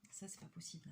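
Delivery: whispered aside, fed up; exasperated whisper. Real, not acted. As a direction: breathe it out under your breath, exasperated. (chuchoté, exaspérée)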